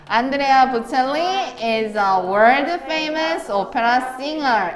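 slow, deliberate model reading; read-aloud for class. Shown as a demonstration. Teacher leading students in reading aloud, slow and measured. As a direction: spell out each word slowly for students to follow. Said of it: "큰 소리로 읽어".

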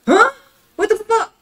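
high, loud disbelieving yell; incredulous outburst. Real, not acted. Ranting to viewers about being underpaid, a shocked yell. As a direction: spit it out in total disbelief. Outrage at the ten dollar wage.

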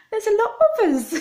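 high and loud through a laugh. Real, not acted. Joking to viewers about her many cousins, laughing. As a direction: cackle the words out.

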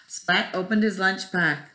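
put-on lively storybook read-aloud to kids; reading to children. Teacher reading Splat the Cat to her first graders, animated. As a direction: tell it like bedtime for a first grade class. Reads picture book to class.

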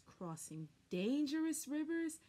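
ordinary delivery, nothing marked

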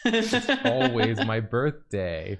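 birthday brat. Pretend.

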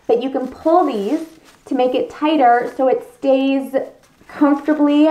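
muffled through face shield; inside a helmet. Real, not acted. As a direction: voice enclosed by visor. Seen 0: Clear full-head helmet over her face while she talks throughout.

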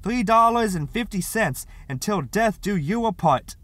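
grand officious flourish. Acted. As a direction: sing it out like a clerk's flourish. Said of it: "she said with a flourish".

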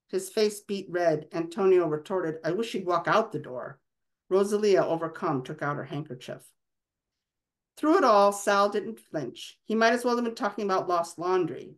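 an author reading her novel aloud, even and measured; story narration. Acted. Author reading a chapter of her novel to an interviewer, steady storytelling. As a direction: carry the listener through the scene.

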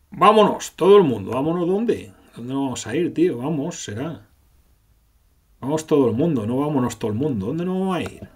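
high, loud, rushed call to flee; panicked call. Acted. Rain urges the whole group to run, in a high panicked call. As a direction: hurry everyone out in a fluster.

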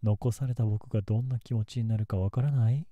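menacing. Acted. Obsessive outburst, louder.

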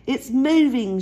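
put-on high, loud child's cry of discovery; sudden shout from the pond edge; excited shout. A narrator's reading. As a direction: call it out as the thing moves. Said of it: "shouted Buddy".

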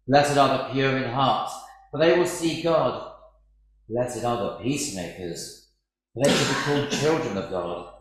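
solemn liturgical reading of the Gospel; scripture reading. Acted. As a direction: proclaim each beatitude with weight. Gospel reading in church service.

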